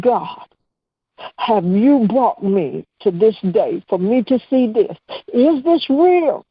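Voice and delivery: imploring God in a retold prayer; slow, emphatic questions rising in pitch; pleading prayer. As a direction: plead for an answer, stretching the words. Acted anguished questioning of God.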